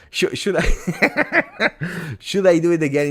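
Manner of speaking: high, stuttered start into giggles; laughing. Real, not acted. Streamer asking viewers about trying it again, laughing. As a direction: crack up while asking.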